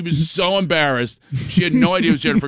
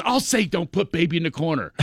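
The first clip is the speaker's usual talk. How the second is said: shtick; 3 semitones higher than usual. Retold or imitated. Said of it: "Now she starts doing shticks".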